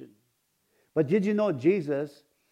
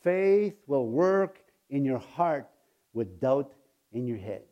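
quoting Brother Hagin; slower than usual. Retold or imitated. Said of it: "Brother Hagin used to tell us".

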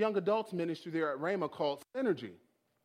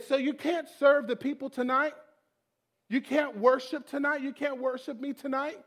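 higher, everyday questioning voice; mildly incredulous, rising questions; the Lord; 5 semitones higher than usual. Acted. God asking the worship leader, gently challenging. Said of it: "And he said".

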